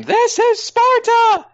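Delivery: high, drawn-out mock battle scream; screamed war cry. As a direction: bellow it slowly like a movie warrior. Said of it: "going to hear him scream".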